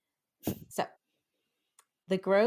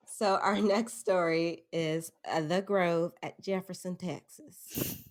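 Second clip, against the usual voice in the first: put-on Southern accent. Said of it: "am I even doing the right accent?".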